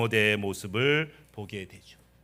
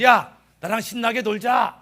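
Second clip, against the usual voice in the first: Satan; 7 semitones higher, 4 dB louder than usual. Acted. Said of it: "사탄이 찾아왔어요".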